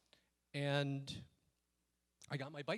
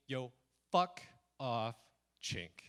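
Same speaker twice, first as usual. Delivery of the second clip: retold insult; 2 semitones lower, much slower than usual. Bike thief's insult retold to the audience, deliberate and spaced out. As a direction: set each word apart with pauses. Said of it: "then he said to me".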